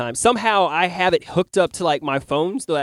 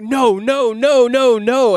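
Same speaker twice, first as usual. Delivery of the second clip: mock panic; 7 semitones higher, much slower than usual. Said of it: "freaking out".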